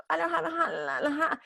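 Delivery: high, fake sing-song laughing; mock carefree laugh. A kid hiding feelings from mom with a fake laugh.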